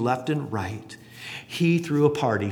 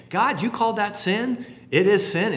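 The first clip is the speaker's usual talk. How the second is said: voicing a confession; 8 semitones higher than usual.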